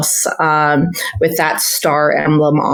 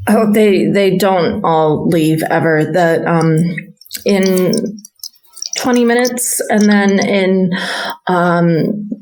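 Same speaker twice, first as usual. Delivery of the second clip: put-on stuttering stable boy. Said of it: "stuttering when he talks to you".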